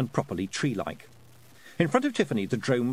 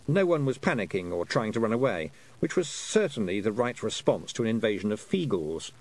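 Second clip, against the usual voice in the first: ordinary delivery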